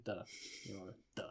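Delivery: "duh" with a hard d, low and soft; German-style th. Shown as a demonstration. Showing friends the German way, "duh" with a d. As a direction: say "the" as "duh", dropping the th. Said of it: "I pronounce it like a German does".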